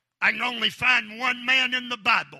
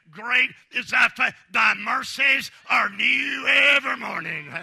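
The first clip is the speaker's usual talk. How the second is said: loud, high ringing proclamation; proclaiming; 3 semitones higher, 4 dB louder than usual. Retold or imitated. Jeremiah bragging on God's faithfulness, loud and ringing. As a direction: declare it to the rafters. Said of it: "He said".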